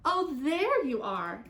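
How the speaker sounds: slow, high, loud exclamation; exclaiming. A narrator's reading. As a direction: exclaim it on finding someone at last. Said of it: "it exclaimed when it saw".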